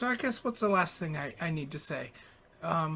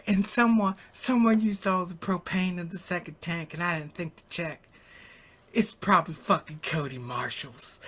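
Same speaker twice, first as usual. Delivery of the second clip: lightly voiced imitation of a friend's voicemail; Dickie impression; 4 dB louder than usual. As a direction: start emphatic and louder, then ease off. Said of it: "I'll do the impression".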